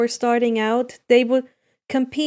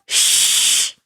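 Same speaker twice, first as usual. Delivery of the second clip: whispered hush; sharp whispered shh; shushing. A narrator's reading. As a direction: hush them fast. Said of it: "Inko said".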